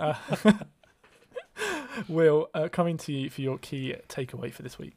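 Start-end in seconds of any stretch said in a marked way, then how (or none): 1.3-2.0 witch laugh. Acted. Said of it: "should I do my witch laugh again?".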